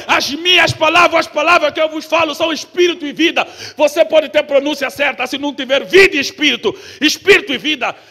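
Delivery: loud, driving sermon delivery, building to a peak; fiery preaching. Acted. Preacher rousing the congregation, loud and fiery.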